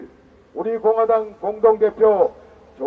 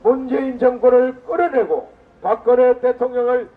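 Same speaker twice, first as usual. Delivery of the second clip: roaring rallying speech. Real, not acted. Rally leader rouses party members.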